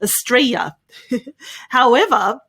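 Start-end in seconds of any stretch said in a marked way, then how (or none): 0.0-0.8 AUSTRALIA as uh-STRAY-ya, no L; AUSTRALIA cut to three syllables, "uh-stray-ya"; Australian pronunciation. Shown as a demonstration. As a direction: swallow the L in AUSTRALIA. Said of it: "erase some of those syllables".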